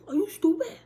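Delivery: high, loud laughing scold; giggling mock insult. Real, not acted. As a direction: crack up while scolding.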